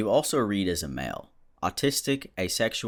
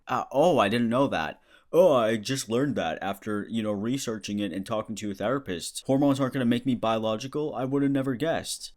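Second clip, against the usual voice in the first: raised pitch, feigned astonishment; sarcastic mock surprise; 3 semitones higher than usual. Answering terfs about hormones, in sarcastic mock surprise. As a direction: act as if this is shocking news, dripping sarcasm.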